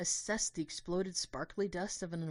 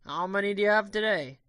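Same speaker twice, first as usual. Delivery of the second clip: broken English tourist; 5 semitones higher, 11 dB louder than usual. Acted. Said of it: "asked in broken English".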